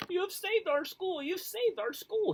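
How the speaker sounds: high, slow joyful roar; jubilant roar. Acted. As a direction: roar it with joy. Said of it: "he jubilantly roared".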